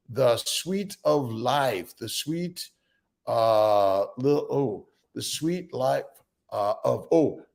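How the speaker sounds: slow, halting reading of a tricky username; reading slowly. Real, not acted. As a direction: sound it out word by word. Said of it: "I have to read it a little slowly".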